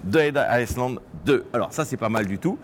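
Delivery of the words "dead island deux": slow, drawn-out title announcement; announcer voice. Acted. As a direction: announce the game title slowly. Intro title after zombie bit. (voix d'annonceur lente)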